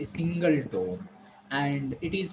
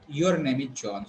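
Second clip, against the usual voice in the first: lower-pitched statement, tune falling on John; 4 semitones lower than usual. Shown as a demonstration. Teacher contrasting tones for students, falling tone. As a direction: say "John" with a falling, settled end. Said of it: "that is also that falling tone".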